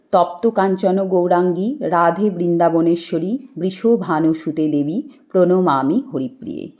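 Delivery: steady devotional recital of a Sanskrit prayer; mantra recitation. Acted. Priest-like host reciting the Krishna salutation in worship. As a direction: intone the verses evenly, like worship.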